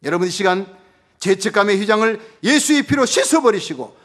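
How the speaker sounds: loud, high, fervent pulpit delivery; full-throated revival preacher; preaching at full force. Acted. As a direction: proclaim it to the whole congregation.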